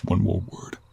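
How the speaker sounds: terse, restrained warning; controlled first warning; stern warning. Acted. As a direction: warn them off, voice held in check. Warns the captive, first time.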